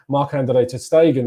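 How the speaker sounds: Marc-Andre ter Stegen said the Spanish way, a slip of a Spanish accent. Real, not acted. Fan previewing Arsenal wages slips, names keeper in Spanish accent. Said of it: "I pronounced that in a Spanish accent".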